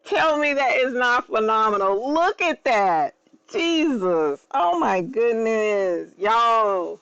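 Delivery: awestruck, drawn-out gushing; fangirling. Real, not acted. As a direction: marvel slowly, stretching the words. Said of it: "that's enough fangirling".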